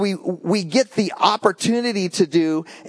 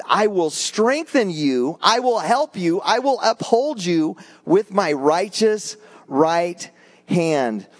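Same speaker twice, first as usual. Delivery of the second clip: scripture reading; 3 semitones higher than usual. Acted. Reads Isaiah aloud.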